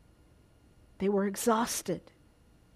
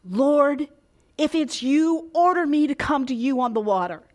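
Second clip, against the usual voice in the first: crying out; 2 semitones higher, 3 dB louder than usual. Acted. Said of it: "he cried out".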